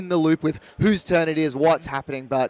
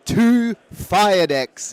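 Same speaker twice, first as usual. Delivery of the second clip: slow, booming movie-trailer narrator; old sci-fi announcer; 5 semitones higher, 6 dB louder, much slower than usual. Acted. Dramatic trailer-style match intro.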